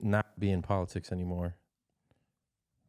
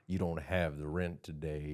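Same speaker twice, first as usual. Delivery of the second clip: landlord voice; 4 semitones lower, 5 dB quieter, slower than usual. Pretend. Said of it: "come in the room and be like".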